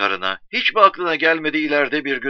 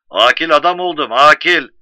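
loud, emphatic repeat into the receiver; insistent phone shout; 3 semitones higher, 9 dB louder than usual. Acted. Husband repeating his news to his wife, loudly insistent. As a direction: shout it so she gets it.

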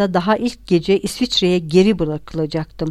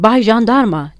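higher, louder cry for the gendarme; exasperated appeal, raised voice; shouting; 4 semitones higher, 5 dB louder than usual. A narrator's reading. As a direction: call out as if overwhelmed. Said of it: "diye bağırdı".

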